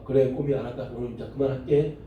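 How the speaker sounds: low, calm, matter-of-fact reply; mock unruffled. Pastor answers the talking pet as if normal, mock unruffled. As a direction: pretend it is perfectly normal, voice low.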